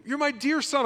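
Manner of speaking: high, tender loving father voice; a father calling his son dear, tenderly. Acted. Father gently reassures his returning son, tender and high. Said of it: "that's endearment".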